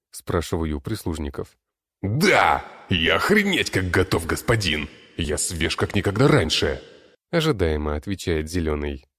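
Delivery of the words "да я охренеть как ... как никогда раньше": loud, eager odd sidekick voice; eager servant voice. Acted. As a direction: bark it out eagerly. Servant Green answers eagerly.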